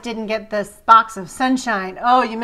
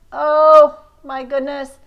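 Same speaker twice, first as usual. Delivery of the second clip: delighted gasp; 3 semitones higher, 6 dB louder, slower than usual. Real, not acted. Delighted by a card.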